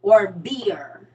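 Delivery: "beer" with a clear EER; standard pronunciation. Shown as a demonstration. Checking what Saint Louis speaker meant, "beer" with EER. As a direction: say "beer" with the vowel of ear. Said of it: "Like, Saint Louis is her".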